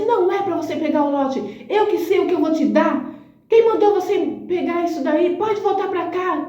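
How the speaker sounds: high, sharp reproach; a boss catching her out in front of everyone; scolding boss. Retold or imitated. (bronca aguda e bem mais alta da chefe)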